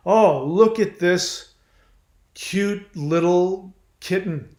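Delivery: mock baby-talk cooing, slowed down and lifted; cooing over a kitten. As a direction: gush over the little wounded kitten like it's adorable.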